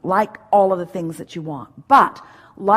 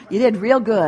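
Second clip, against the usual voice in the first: loud, laughing gold-star praise; mock praise; 5 dB louder than usual. Giving the guest his requested praise, loud and laughing. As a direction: hand over the praise he asked for, laughing. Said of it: "You want words?".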